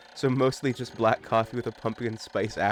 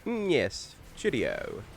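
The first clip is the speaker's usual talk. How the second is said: mock British; slower than usual. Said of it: "Yes, Impu is British".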